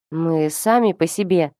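plain reading voice

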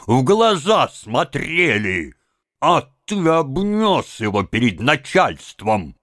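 angry shouting. A narrator's reading. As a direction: lay into him, bullying and loud. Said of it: "кричите так".

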